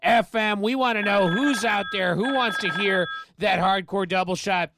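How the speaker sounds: upbeat rock radio host patter; radio DJ intro. Acted. Rock DJ hyping listeners to call in, in radio host voice. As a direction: pitch the show like a late-night rock DJ.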